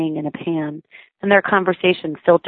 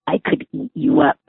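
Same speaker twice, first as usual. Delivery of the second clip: high, playful mimic of mom; imitating mom; 10 semitones higher than usual. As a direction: copy mom's doting tone, pitched up. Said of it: "in a perfect imitation of me".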